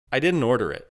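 faintly rattled protest; mild agitation. A narrator's reading. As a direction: push back with a touch of agitation. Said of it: "agitation creeping into his voice".

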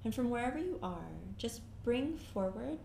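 calm meditation guide, long pauses between phrases; guided meditation. Acted. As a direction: guide them gently inward, leaving silence after each phrase.

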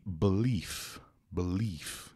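belief ending in a clear F; slow, separate belief with the F heard at the end; final F sound. Shown as a demonstration. Teacher showing viewers the word's ending, belief with final F. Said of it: "Som de F mesmo ali no finalzinho".

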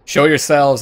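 loud call to someone hidden; calling back. Acted. Traveler answering a hidden bandit, calling back loudly. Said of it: "I called back".

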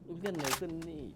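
oh, so that's what it means; dawning realization. Real, not acted. อ๋อ. (พูดแบบเพิ่งเข้าใจ เสียงสูงขึ้น)

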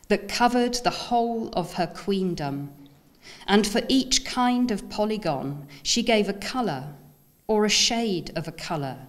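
measured, incantatory poem recital with pauses between phrases; lifted, deliberate poetry-reading voice. Acted. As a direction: read it like a solemn founding legend, phrase by phrase. Reads own poem aloud to an audience.

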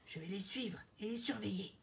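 soft conspiratorial aside; furtive, hushed. Acted. Rhino planning to watch the king, hushed. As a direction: keep it under your voice. Spies secretly announce they will follow.

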